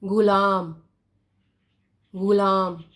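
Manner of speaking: गुलाम with a voiced throaty gh, ग़ुलाम; nukta pronunciation. Shown as a demonstration. Teacher reading the word with the nukta, throaty गुलाम. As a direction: gargle the start of गुलाम in the throat. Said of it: "ये क्या शब्द बना हमारे पास".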